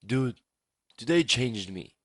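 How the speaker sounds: mock-solemn imitation of a friend; played dead serious; super serious. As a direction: deliver it in earnest, as a grave confession. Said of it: "super serious, by the way".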